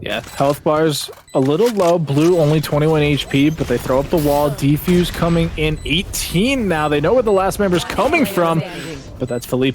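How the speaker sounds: quick live match commentary; esports caster. Acted. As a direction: narrate the round as it unfolds. Live play-by-play call.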